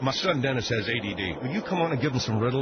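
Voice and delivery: usual speaking voice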